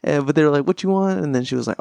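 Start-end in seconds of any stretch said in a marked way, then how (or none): 0.6-1.2 lightly imitated Asian accent, pitched up; mock Asian accent. Restaurant worker asking for the order, mock Asian accent. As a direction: slip a little into an Asian accent. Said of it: "I keep going into the accent".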